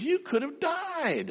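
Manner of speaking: slow, hushed and fearful; mother realising her son breathed fumes, hushed fear; alarmed mother. Retold or imitated. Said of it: "She says".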